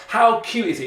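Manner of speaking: high excited "How cute is it?"; delighted exclaiming teacher; amazed exclamation. Shown as a demonstration. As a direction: gush over the robot, pitch way up. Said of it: "You're shouting about it".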